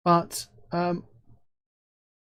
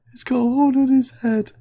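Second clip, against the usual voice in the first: amused whisper; 10 semitones higher, 6 dB louder than usual. Real, not acted. Amused whisper about the horse.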